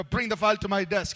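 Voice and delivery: curt order with no please; demanding tone, no courtesy; blunt command. Shown as a demonstration. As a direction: bark it like a boss who expects it done. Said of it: "rather than saying".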